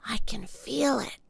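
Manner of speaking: put-on girl whispering to her brother; whispered. A narrator's reading. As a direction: breathe it like a secret. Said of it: "she whispered".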